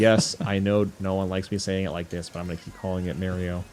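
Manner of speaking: "Mario" as MARE-ee-oh; mispronounced Mario. Retold or imitated. Mimicking stubborn misnamers, "Mario" as MARE-ee-oh. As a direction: say "Mario" with the vowel of merry. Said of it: "everyone that says Mario always address".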